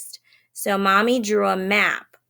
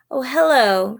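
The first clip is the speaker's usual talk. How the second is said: put-on bright little girl; 6 semitones higher, 5 dB louder than usual. A narrator's reading. Cheerful girl greets wolf.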